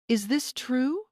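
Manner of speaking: high, sharp angry question; barking demand. A narrator's reading. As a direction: demand the truth, hard. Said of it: "Stan barked".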